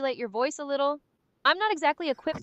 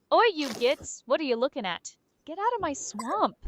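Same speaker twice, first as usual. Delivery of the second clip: hammed-up grumpy goblin, sounding more like an ogre; goblin impression; 2 semitones higher than usual. AI gives the streamer its best goblin impersonation, grumpy goblin voice. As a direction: challenge them like a territorial swamp goblin. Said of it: "your best impersonation of a goblin".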